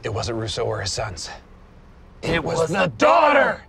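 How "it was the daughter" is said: excited realization. Acted. Realizing the culprit.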